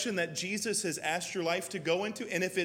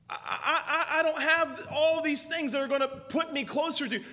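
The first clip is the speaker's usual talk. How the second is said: laughing mock excuse; 5 semitones higher than usual.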